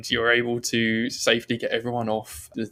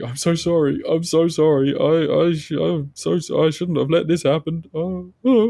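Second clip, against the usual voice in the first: higher, louder blubbering apology; hammed-up tearful stammer; mock sobbing; 6 semitones higher, 6 dB louder than usual. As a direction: act out a sobbing, guilt-stricken man. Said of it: "He's just quietly sobbing to himself".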